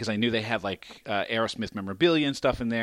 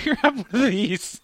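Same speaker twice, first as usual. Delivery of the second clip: pleading dad; 11 semitones higher, 4 dB louder than usual. Retold or imitated. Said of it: "is this gonna make you feel better".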